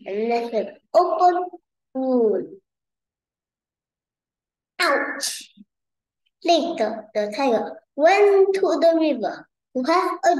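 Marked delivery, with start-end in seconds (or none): 4.8-5.5 high, airy cry of pain; storybook tiger's hurt exclamation; acted ouch. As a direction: yelp a pretend ouch. Tiger hurt by falling rock.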